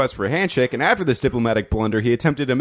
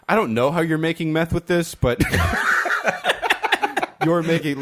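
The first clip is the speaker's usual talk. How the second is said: raised, laughing mock yell; mock cashier outburst; 6 semitones higher than usual. Cashier telling him about Crystal Light, mock yell with laughter. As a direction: half-shout it as the baffled cashier. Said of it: "the person looks at me like".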